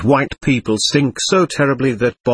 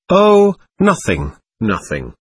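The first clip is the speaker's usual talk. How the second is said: fading dread. Acted. Shocked boy answers about the shaft.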